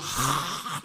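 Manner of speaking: long breathy wail of grief; drawn-out "haaa", imitating bitter weeping; acted sob. Peter hearing the rooster, acted bitter weeping. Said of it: "막 통곡을 하는 거예요".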